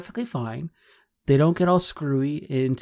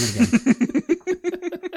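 high, slow mock director call; hammed-up film director; 3 dB louder, much slower than usual. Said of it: "I need to hear some more panic".

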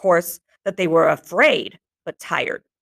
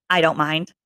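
cool and casual; 3 semitones lower than usual. Acted. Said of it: "he heard his voice come out, cool and casual".

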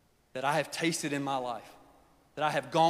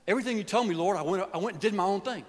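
pleading son; 5 semitones higher, faster than usual. Acted. Prodigal son confessing.

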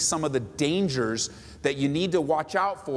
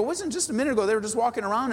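amazed question; 6 semitones higher, faster than usual. Retold or imitated. Bystander amazed at mercy person.

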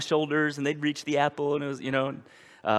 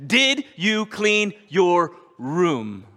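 slow gentle question; 4 dB louder, much slower than usual. Pretend. God's voice repeated.

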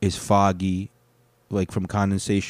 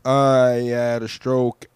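slow, drawn-out politician impression; imitating stroke-slowed speech; 4 dB louder, much slower than usual. Comedian guessing how the politician talks, slow imitation. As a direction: stretch each word out slowly, lightly put on. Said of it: "I'm assuming that's how he talks".

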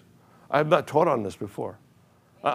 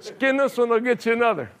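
much higher, words bubbling with laughter; laughing punchline; 9 semitones higher than usual. Real, not acted.

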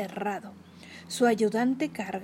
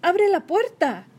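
higher, louder, slow yell; shout; 8 semitones higher, 6 dB louder than usual. Acted. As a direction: yell the order urgently. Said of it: "le grité".

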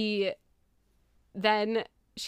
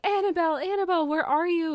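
higher calling voice, imitating a boy searching; calling out for Annabelle; 9 semitones higher, 3 dB louder, faster than usual. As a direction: call her name across the woods, a bit higher. Billy calling the lost cow.

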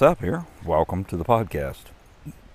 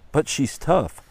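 much higher, eager protest; excited; 8 semitones higher than usual. Acted. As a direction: jump in proudly to defend her. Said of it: "said the Lord excitedly".

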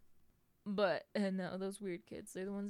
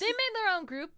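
mock snooty repeat; 11 semitones higher, 8 dB louder than usual. Mocking repeat of own line.

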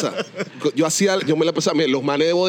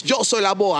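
boastful rival; 4 semitones higher, slower than usual. Retold or imitated. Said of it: "el man dice".

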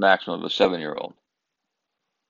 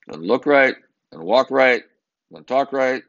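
higher, louder scornful list; mock disdain; 6 semitones higher, 6 dB louder than usual. Diners judging the cowboy brother, higher and louder scorn. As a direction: sneer it like a judging churchgoer. Voicing judgmental diners' thoughts.

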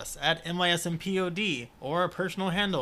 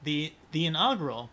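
ad read. Acted. Reading the wine label aloud as a mock ad. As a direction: read the label copy like a sommelier.

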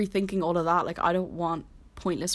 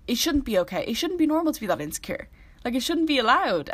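passionate outburst; 6 semitones higher, 4 dB louder than usual. Real, not acted. Passionate protest about insecurity.

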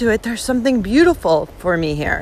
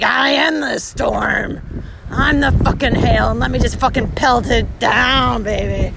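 defiant. Retold or imitated. Becoming the storm.

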